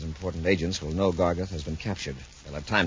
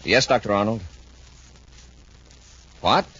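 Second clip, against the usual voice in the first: alarmed on phone; 4 semitones higher, 6 dB louder than usual. Acted. Shocking phone news.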